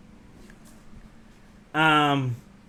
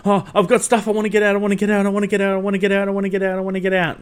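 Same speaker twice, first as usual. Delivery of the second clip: 1 mock panic; 7 semitones higher, 4 dB louder, much faster than usual. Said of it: "him shitting bricks".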